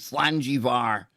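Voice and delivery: lightly put-on Scottish accent, reading a message out; a hint of a Scottish accent, half-hearted; reading a donation aloud in a mock Scottish accent. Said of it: "I'll read it out in my best Scottish accent".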